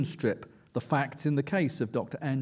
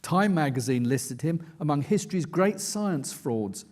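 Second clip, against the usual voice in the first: steady, measured reading of his own nonfiction; book reading. A narrator's reading. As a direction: read it like an audiobook narrator, building tension. Reads aloud from his book.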